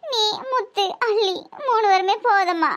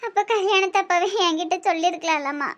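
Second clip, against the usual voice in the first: crying. Acted. Daughter weeping over ruined marriage.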